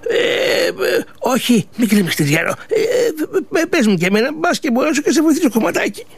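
put-on an old woman gently offering to help; kindly old woman. Old woman comforts the old man.

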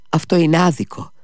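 high, pained cry of injustice; indignant exclamation. Acted. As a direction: exclaim it, voice jumping up. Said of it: "αναφώνησε ο Κόλια". (ψηλή αγανακτισμένη κραυγή)

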